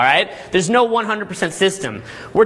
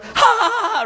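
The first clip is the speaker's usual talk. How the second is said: high mock giggle; imitated girl's laugh. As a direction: play the girl laughing along, much higher. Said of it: "just immediately starts laughing".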